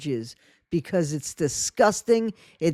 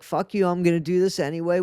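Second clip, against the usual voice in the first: quick mocking threat; much faster than usual. Mocking the panelist's threatening tone to Bree. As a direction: rattle it off as a taunt. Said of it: "it sounded like a threat".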